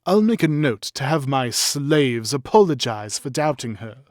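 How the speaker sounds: put-on lofty upper-class aristocratic accent. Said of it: "In his best aristocratic accent".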